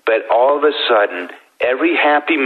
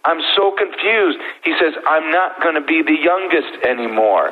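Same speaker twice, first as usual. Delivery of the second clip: put-on a lightly raised, puzzled kid's voice; confused little boy; 6 semitones higher than usual. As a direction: play the baffled ten-year-old, pitched up. Dad voices ten-year-old son.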